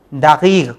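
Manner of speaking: दागीग with g where qaf is written; Tehrani daageeg. Shown as a demonstration. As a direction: say दागीग, both qafs as g. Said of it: "पढ़ने में ग का sound आएगा".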